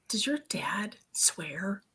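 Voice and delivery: slow, hushed retold question; hesitant question. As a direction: ask haltingly, almost in a whisper. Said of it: "it took me, like, at least two minutes".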